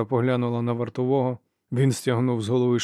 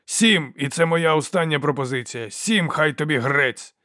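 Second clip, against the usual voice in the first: loud haggling; 4 semitones higher, 4 dB louder than usual. Acted. Soldier haggling angrily.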